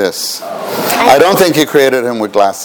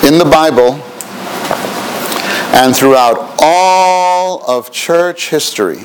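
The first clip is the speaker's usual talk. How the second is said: dictating. Shown as a demonstration. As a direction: dictate each word clearly. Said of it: "Please write that".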